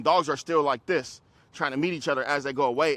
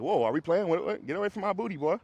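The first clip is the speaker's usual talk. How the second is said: voicing the dog; 4 semitones higher than usual. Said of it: "She's like".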